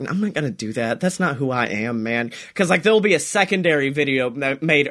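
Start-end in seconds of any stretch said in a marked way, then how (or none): 0.1-2.3 stubborn refusal. Retold or imitated. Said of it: "he's like".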